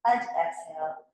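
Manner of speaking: hissing s on the exhale; drawn-out s like a snake. Shown as a demonstration. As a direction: let the breath out as a long hiss. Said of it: "exhale with the S sound".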